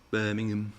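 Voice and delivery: lightly attempted Brummie accent; bad Birmingham accent. Shown as a demonstration. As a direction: try a badly faked Birmingham accent. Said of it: "That was a bad Birmingham accent".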